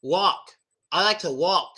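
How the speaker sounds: "walk" with a silent L, tongue touching nothing; native "Walk". Shown as a demonstration. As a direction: say "walk" without lifting the tongue. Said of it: "my tongue is not touching anything".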